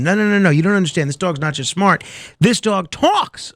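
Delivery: mildly insistent, rushing in then stretching the last word; insistent pitch. Acted. Dog owner selling his act to the producer, insistent. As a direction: excitedly correct him, landing hard on TALKS.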